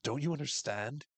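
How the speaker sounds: a slowed-down chilling cult leader; cold Lottie. Retold or imitated. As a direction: hand down the verdict slowly, coldly. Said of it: "Lottie is all like".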